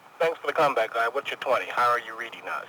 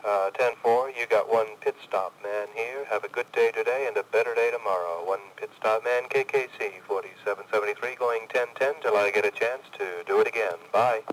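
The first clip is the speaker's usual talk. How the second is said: over cb radio. Acted. Distant CBer signing off over radio.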